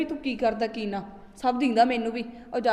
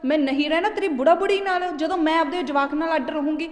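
raised, louder angry insistence; angry wife; 4 semitones higher, 4 dB louder than usual. Acted. Wife angrily demands to live apart, louder. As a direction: snap back at him, fed up. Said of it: "ਤੂੰ ਕਾਹਨੂੰ ਕਮਲੀਏ ਗੁੱਸੇ ਹੋਈ ਆ".

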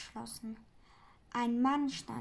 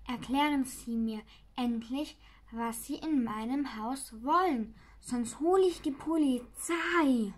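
mildly threatening; 5 dB louder than usual. Acted. Herr Lürch threatens the intruders.

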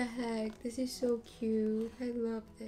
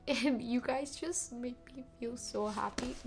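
crying; 5 dB quieter than usual. Real, not acted. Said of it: "I'm crying".

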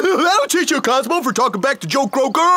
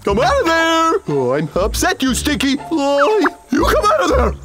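angry yelling. Acted. Frog yells at the hiding fly.

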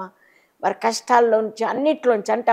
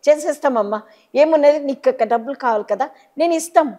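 higher, louder, mock-easy promise; 5 semitones higher, 3 dB louder than usual. People mocking a mother who begs for school fees, in a hammed-up offhand voice. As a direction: toss off the promise as if it costs nothing. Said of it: "అందరు ఎగతాళి చేసేవారు".

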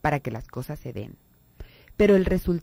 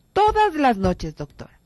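much higher, slow, stretched Todas las noches; drawn-out complaint; 8 semitones higher, 4 dB louder than usual. Retold or imitated. Patient insisting to her doctor, stretched whiny plea. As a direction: lean hard on Todas las noches, pleading. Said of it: "cuando dicen".

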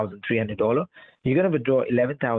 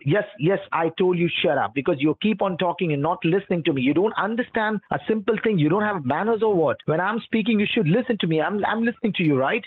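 angry scolding; 6 semitones higher than usual. Real, not acted. Scammer scolds the caller.

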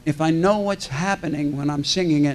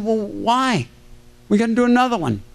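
higher-pitched mock protest; insistent retold complaint; 5 semitones higher than usual. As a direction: object as if retelling a plea to the crew.

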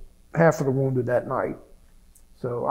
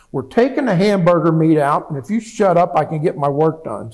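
annoyed doctor; 4 semitones higher, 9 dB louder than usual. Retold or imitated. Doctor snapping at patient.

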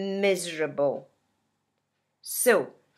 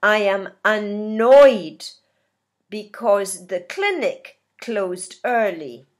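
louder, mildly acted annoyance; annoyed; 5 dB louder than usual. Teacher acting someone at a clinic closed early, mildly annoyed. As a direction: push out the last word with a touch of irritation. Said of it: "Another angry word".

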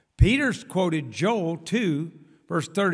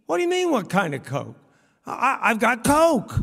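a higher, louder, baffled host stammering the last words; mock-puzzled host; 4 semitones higher, 4 dB louder than usual. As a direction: play the host as confused by the question. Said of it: "they say to me".

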